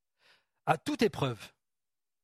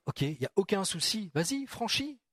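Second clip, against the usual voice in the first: encouraging call; 3 semitones higher than usual. Retold or imitated. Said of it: "il lui dit".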